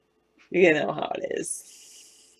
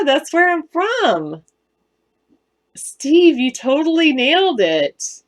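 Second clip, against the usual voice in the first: Southern accent; 5 semitones higher, 5 dB louder than usual. Shown as a demonstration. Thanking Steve for guessing her home, in a Southern accent. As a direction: let the old West Virginia twang come back. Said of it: "I didn't know I still had it in me".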